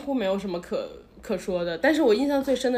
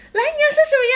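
much higher, louder sing-song; cutesy staff voice; 8 dB louder than usual. Retold or imitated. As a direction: coax it out like a cheerful cast member. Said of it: "他说".

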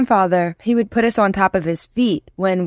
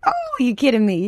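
mock incredulity; 5 semitones higher than usual. Imitating the Cajun man on the plane, incredulous. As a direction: imitate an amused, incredulous reply. Acts out seatmate's delighted reply.

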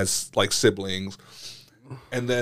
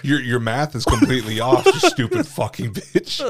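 mock outrage; 2 semitones higher, 4 dB louder than usual. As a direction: go off at the ex, half laughing. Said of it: "I'm like".

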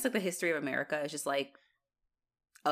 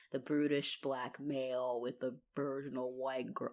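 low sarcastic mutter; 6 semitones lower, 8 dB quieter than usual. Retold or imitated. Voicing the filmmakers' cliché.

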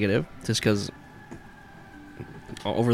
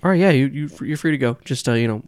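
louder flustered officer; officer letting them go; 4 dB louder than usual. Acted. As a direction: cop waving them off, a bit too loud.

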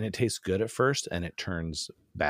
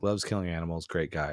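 sarcastic. Shown as a demonstration. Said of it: "It's sarcastic".

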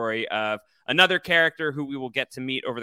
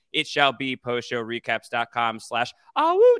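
mock wolf howl; 2 semitones lower than usual. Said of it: "Just kidding".

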